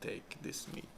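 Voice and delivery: a hint of a bad Russian accent; lightly put-on Russian accent, menacing. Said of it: "That was my Russian".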